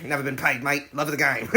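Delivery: Australian boxer's matter-of-fact reply; easygoing phrasing in an Australian accent; Jack Kerouac. Acted. Boxer answering whether he is amateur, Australian accent. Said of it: "I thought of the character".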